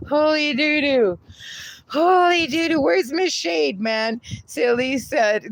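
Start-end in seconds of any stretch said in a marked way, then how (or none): 0.1-4.2 giddy high greeting; excited exclaim. Real, not acted. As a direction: burst out excitedly.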